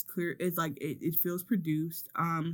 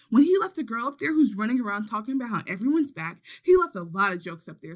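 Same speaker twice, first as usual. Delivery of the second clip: mildly heated mock rant; retold tirade, a touch exasperated; Sweetie going off; 4 semitones higher than usual. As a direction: rattle off an indignant complaint as someone else. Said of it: "this is Sweetie just going off".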